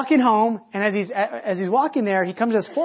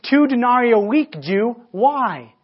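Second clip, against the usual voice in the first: curt centurion; 4 semitones higher, 6 dB louder, slower than usual. Acted. Centurion shouts down from gate.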